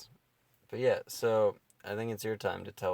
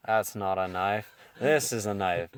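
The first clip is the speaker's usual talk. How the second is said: mock tough guy; 5 dB louder than usual. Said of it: "This Australian dude walks up and he's like".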